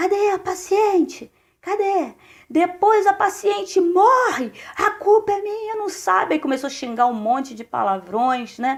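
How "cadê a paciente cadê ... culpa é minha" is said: put-on high, drawn-out shouting. Retelling a doctor yelling from the corridor for the patient: imitating a doctor shouting. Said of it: "E ele começou a gritar".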